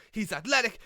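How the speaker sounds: he's "athletic" called out with eager excitement; "athletic" as a confident, eager point; hyped commentator. Retold or imitated. Rookie commentator overhyping a wrestler, "athletic" said eagerly. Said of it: "So I'd be like".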